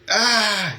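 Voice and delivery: re-enacted yelp on spotting someone; startled "ah". Telling viewers about finding a kid lying there, startled yelp.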